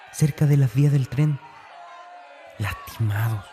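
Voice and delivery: indignant outburst. Acted. James telling Dani he was blamed, loud protest. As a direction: push it out, hurt and accused. Accused boy pleading to Dani.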